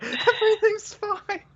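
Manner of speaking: mocking. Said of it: "You were just going on like".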